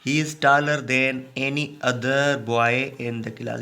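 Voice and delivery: slow example sentence with "other" drawn out; measured teacher's reading, leaning on "other"; stress on OTHER. Shown as a demonstration. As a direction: read slowly, setting "other" apart. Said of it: "आपको other लगाना है".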